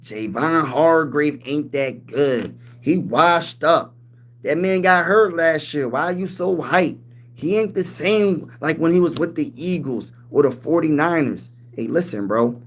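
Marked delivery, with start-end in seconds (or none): 0.0-11.5 lightly done slow mocking doubter; Cassidy voice. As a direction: drag it out like a skeptical hater. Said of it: "let me put my Cassidy voice on".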